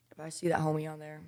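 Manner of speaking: soft unvoiced whisper. Real, not acted. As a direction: whisper it like a secret. Whispering aside about Ben.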